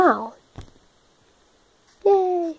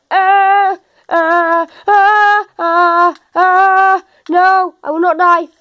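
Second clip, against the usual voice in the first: panicked yelling; 3 semitones higher, 4 dB louder than usual. Real, not acted. Panicked stammering under attack.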